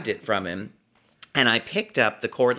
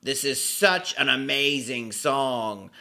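awestruck, drawn-out mock rapture; drunken gushing; slower than usual. Parker gushes to his friend about the song, drunken rapture. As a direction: rave slowly, drawing out the praise.

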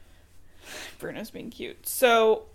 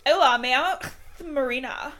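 higher-pitched, lightly put-on Spanish accent; 4 semitones higher than usual. Host voices Marina introducing herself, Spanish accent. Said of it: "Like Spain, Spanish".

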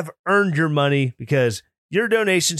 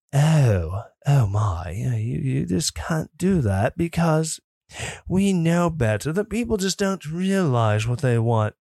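snooty elitist voice. Retold or imitated. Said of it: "Kim says my snooty elitist voice".

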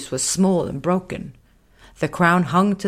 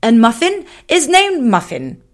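high, louder lion introduction; cheerful little lion; 8 semitones higher, 8 dB louder than usual. Acted. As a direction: present him happily. Raga introduces Muffin.

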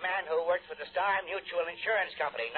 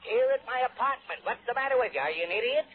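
raised, impatient scolding; irritated scolding; 5 semitones higher, 3 dB louder than usual. Acted. Cranky client scolding the investigator over the phone, irritated and louder. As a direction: snap at him like a fool.

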